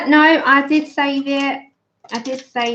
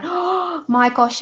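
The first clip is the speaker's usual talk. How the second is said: slow, higher gasped dismay; retold horror; 6 semitones higher, much slower than usual. Re-enacting her look in the mirror, mock horror.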